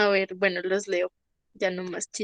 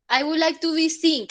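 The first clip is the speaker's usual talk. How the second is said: quoting the mistake; 5 semitones higher than usual. Retold or imitated.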